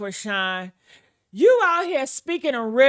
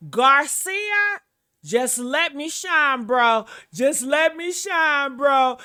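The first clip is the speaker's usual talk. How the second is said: mocking her quote; slower than usual. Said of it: "Listen to what this woman just said".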